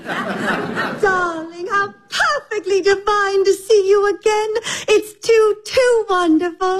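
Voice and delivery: gushing society lady; effusive, breathless delight; drawing room comedy. Acted. Gushing guest greets old friend.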